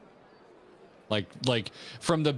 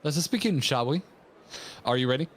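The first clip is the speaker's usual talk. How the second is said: hoity-toity voice; 3 semitones higher than usual. Acted. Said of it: "how to do Alpha Now".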